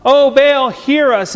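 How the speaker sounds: hammed-up cry to a silent god; mock yell. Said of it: "so I yell louder".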